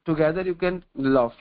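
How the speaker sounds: very slow, word by word; slow maxim. Acted. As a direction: spell out the lesson slowly for the listeners.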